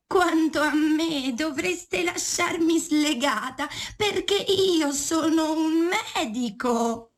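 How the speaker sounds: slow, high sly goat voice. Acted. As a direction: play the clever goat, drawn out. Goat speaks in fable.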